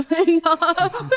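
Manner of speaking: slow words broken by a real laugh. Real, not acted. Guest telling hosts about crocheting, laughing. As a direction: laugh through the words, slowly.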